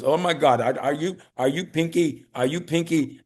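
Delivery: excited high fan voice, light imitation; Indian fan. Fan spotting him in public, lightly imitated excited. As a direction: mimic an eager fan, a touch of accent. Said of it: "this Indian guy says".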